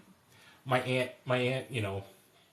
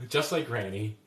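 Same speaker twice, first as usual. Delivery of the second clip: laughing; 5 dB louder than usual. Real, not acted. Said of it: "she's gonna kill me".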